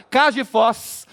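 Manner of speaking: "Caixa de fós" squeezed to Mineiro "cax di fós"; Mineiro three syllables. Shown as a demonstration. Comedian showing Minas speech, "Caixa de fós" contracted Mineiro-style. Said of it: "Três".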